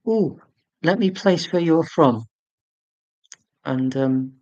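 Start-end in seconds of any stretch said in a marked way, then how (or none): 0.1-2.2 higher, drawn-out musing; mock show of working it out; playful guessing. Streamer retelling guessing a stranger's county, playfully musing.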